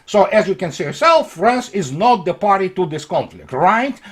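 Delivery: mildly sarcastic, mock-innocent question. Real, not acted. Commentator mocking France's denial of involvement, lightly sarcastic. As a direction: lay the irony on lightly, then ask right. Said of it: "I'm being sarcastic".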